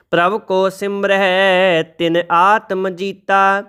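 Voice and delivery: slow, measured reading of sacred verse; scripture recitation. Shown as a demonstration. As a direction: recite each line slowly and reverently.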